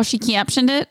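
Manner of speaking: teasing echo with an exaggerated "captioned"; mock the other person's "captioned"; mimicking the pronunciation. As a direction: parrot "captioned" with an overdone vowel. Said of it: "Do I sound like that?".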